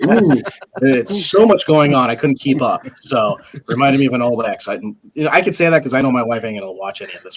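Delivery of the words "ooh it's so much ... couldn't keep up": mock overwhelmed ooh. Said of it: "And like".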